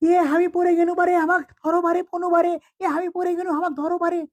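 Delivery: high-pitched alarmed wail; high, panicky plea to be grabbed; panicked cry for help. Acted. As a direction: call out urgently as if about to fall. Passenger falling, calls for help.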